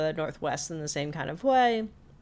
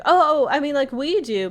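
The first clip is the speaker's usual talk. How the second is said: much higher, louder flustered rush; flustered backpedal; 9 semitones higher, 7 dB louder than usual. Retold or imitated. Friends backpedaling to Grenda, high flustered voice. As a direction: scramble to take it back.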